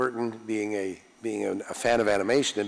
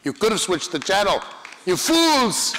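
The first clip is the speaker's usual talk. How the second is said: high, loud theatrical rant; Brain-like villain scolding; 10 semitones higher, 6 dB louder than usual. Acted. Actor scolding fans in mock villain rage. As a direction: bellow it like a cartoon villain. Actor jokes about channel.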